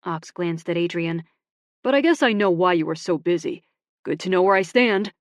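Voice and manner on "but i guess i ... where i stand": loud, bitter and hurt; bitter sarcasm. Acted. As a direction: throw the jab back at her. Bitter reply to Emmy.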